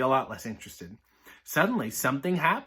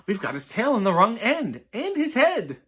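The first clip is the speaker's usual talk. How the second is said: put-on much higher squeaky child voice; high little skeleton; 7 semitones higher, 3 dB louder than usual. Little skeleton noticing the dog's backwards head, high voice. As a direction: pitch way up for the little one.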